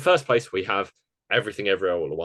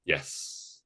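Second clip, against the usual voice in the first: whisper; 6 semitones lower, 9 dB quieter than usual. Real, not acted. Whispered reply.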